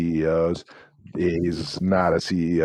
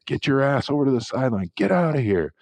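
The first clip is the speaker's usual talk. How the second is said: higher-pitched, quick sideline order; retold coach's order; 7 semitones higher than usual. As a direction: imitate a coach sending a player off.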